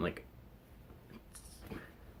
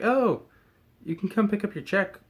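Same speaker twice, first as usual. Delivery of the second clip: boss voice; 11 semitones higher, 4 dB louder than usual. Retold or imitated. Boss quoted on phone.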